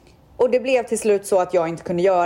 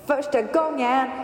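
laughing; 6 semitones higher, slower than usual. Real, not acted. Laughing repeat before the squeal.

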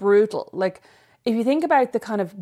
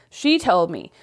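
put-on a light American accent. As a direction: slip into a faint American accent, telling the story. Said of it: "Why do you say that in American voice?".

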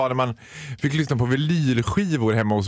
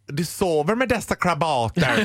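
mock English accent; slower than usual. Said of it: "en engelsk brytning".

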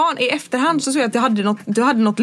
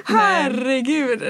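laughing herregud; much slower than usual. Real, not acted. Laughing at the story.

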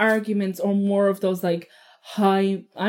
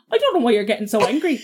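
imitating husband; faster than usual. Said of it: "he just went like this".

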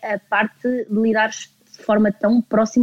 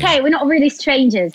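lightly British accent, a touch higher; 5 semitones higher than usual. Shown as a demonstration. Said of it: "Com este sotaque".

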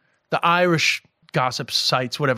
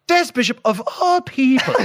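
passive-aggressive; 8 semitones higher than usual. Retold or imitated. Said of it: "so beautifully passive-aggressive".

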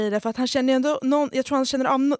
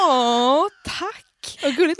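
mock gratitude; 4 semitones higher, 3 dB louder, slower than usual. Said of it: "jag bara".

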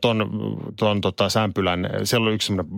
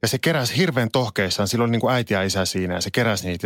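usual speaking voice

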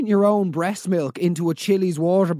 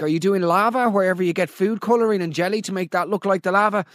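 ordinary delivery

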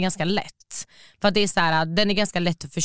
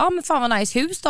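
higher, impressed exclamation at the nice house; gushing over the house, a little higher; mock impressed; 8 semitones higher than usual. She compliments the date's parents' house, mock impressed. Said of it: "jag bara".

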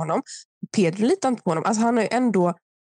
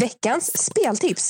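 slow, higher show-title call; jingle announcer; 4 semitones higher, much slower than usual. Pretend. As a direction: announce it over a beat. Performs jingle over beatbox.

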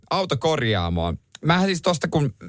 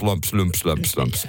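thumping noise; 7 semitones lower, much slower than usual. Retold or imitated. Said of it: "jotenkin lumps".

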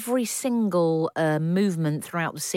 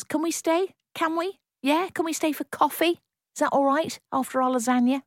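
pleading; 9 semitones higher than usual. Pretend. Pleading high questions.

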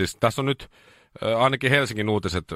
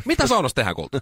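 high sugary question to darling; lightly mock-sweet wife voice; sweet coaxing question; 5 semitones higher, faster than usual. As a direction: ask it sweetly, voice way up. Voicing wife asking sweetly.

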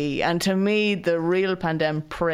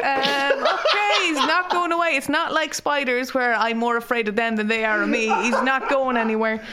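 laughing panic; 5 semitones higher than usual. Real, not acted.

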